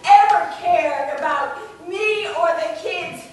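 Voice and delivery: high, very loud angry rant; furious tirade. Acted. Wife demanding her missing husband come home, furious.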